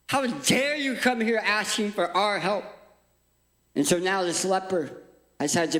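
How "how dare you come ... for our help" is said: indignant rebuke. Acted. Townspeople angrily reject the leper.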